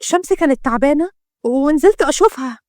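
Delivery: mildly tense explanation; a touch of unease while covering up; nervous. Acted. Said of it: "ردت روح بتوتر".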